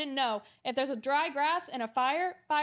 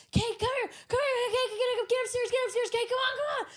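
higher, urgent yelling for Kate; urgent mock calling; 10 semitones higher than usual. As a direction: hurry her upstairs, imitating the boys. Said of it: "They're like".

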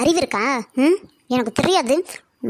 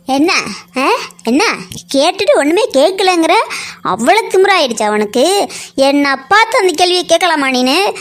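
loud outraged yell, much louder; furious shouting; 4 dB louder than usual. Acted. Woman yelling at the polling officer, furious. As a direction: scream at him in fury.

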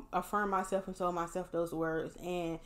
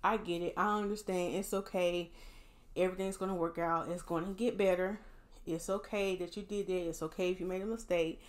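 gentle self-encouragement. Shown as a demonstration. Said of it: "encourage yourself. Be like".

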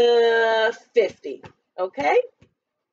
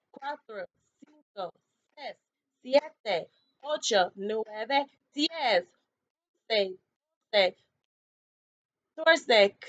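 counting in Spanish; slower than usual. Shown as a demonstration. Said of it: "Now let's do Espanol".

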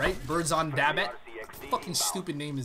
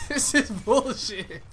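slow, loud, higher angry complaint; angry outburst; 8 semitones higher, 7 dB louder, much slower than usual. Real, not acted. Gamer fuming at a bad spawn, loud and slow. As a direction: spit it out slowly in outrage.

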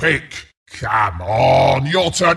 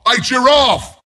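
indignant disbelief; 4 semitones higher than usual. Acted. Outraged at not being picked.

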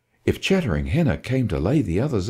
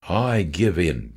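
slow, lower, defeated groan; 5 semitones lower, slower than usual. Acted. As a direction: give up with a groan. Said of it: "Dad groaned".

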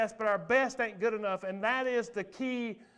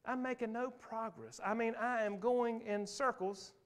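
much softer, muttered to yourself; weary inner voice; 6 dB quieter than usual. Retold or imitated. Believer complaining of no progress, softly to himself. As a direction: mutter like you're stuck and worn out. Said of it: "have you ever felt like".

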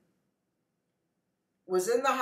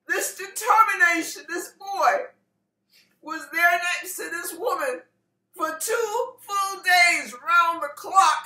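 raised, emotional preacher voice; impassioned preaching; 7 semitones higher, 5 dB louder than usual. Real, not acted. Preacher telling the congregation of his devotion, impassioned. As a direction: testify with mounting fervor. Preacher builds the story at full force.

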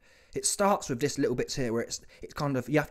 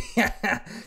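higher, breathy burst of laughter; cracking up; 5 semitones higher, 3 dB louder than usual. Real, not acted. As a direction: break into laughter at your own joke. Cracks up at his mock confession.

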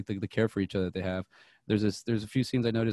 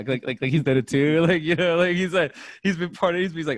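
excited laughter; 7 semitones higher, 7 dB louder than usual. Real, not acted. Excited, laughing about the scene.

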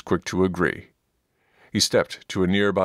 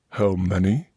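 angry huff. Acted. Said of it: "his breath coming out in an angry huff".

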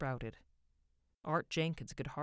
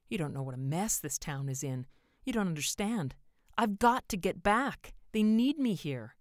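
urgent plea, climbing louder and higher; pleading; 4 semitones higher, 7 dB louder than usual. A narrator's reading. Man begging the stranger to let him return, pleading. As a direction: build to a desperate insistence. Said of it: "George pleaded".

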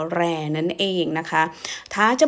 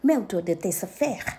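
angry quick retort; 4 dB quieter, much slower than usual. Shown as a demonstration. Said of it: "พูดเร็วๆเนอะ กำลังโมโห".

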